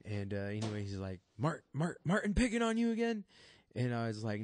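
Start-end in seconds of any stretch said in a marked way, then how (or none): 1.4-3.2 dad's voice. Retold or imitated. Dad asking son about bully.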